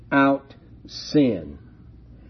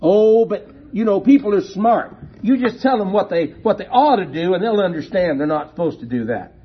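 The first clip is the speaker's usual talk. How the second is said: higher, louder mock voice of a naive objector; 5 semitones higher, 4 dB louder, faster than usual. Preacher mocking a listener who trusts people to understand, higher and louder. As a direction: ham up the objector's breezy confidence.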